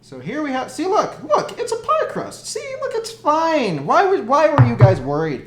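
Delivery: high, laughing, forced cheer. Real, not acted. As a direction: laugh while showing it off. Showing ruined crust, laughing.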